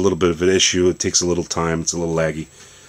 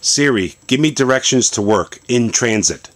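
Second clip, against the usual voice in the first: voice command; 4 semitones higher than usual. Shown as a demonstration. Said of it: "So here it is".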